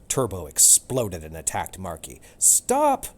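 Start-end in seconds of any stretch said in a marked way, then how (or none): 2.4-3.1 much higher, loud sharp cry; shouted stop. Acted. Cat Romeo stopping Turbo's attack, a high loud cry. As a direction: yell it to break up the fight. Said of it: "cried Romeo".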